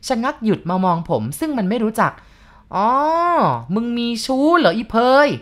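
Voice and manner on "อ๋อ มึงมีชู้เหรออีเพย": higher, louder, slow angry snap; old man catching her lover, snapping; snarled. A narrator's reading. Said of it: "มันตะคอก".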